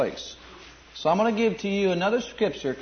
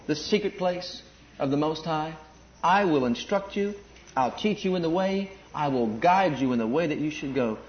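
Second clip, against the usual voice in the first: tender voice of God. Acted. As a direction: speak it gently like a loving father. Voicing God speaking tenderly.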